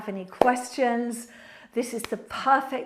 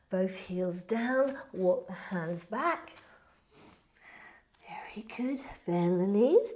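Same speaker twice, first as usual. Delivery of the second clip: yoga instructor cueing. Acted. Leads a yoga flow.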